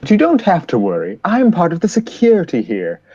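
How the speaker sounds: mild soothing character voice; reassuring security officer. Acted. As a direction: gently talk down a nervous passenger. Security man reassures nervous old lady.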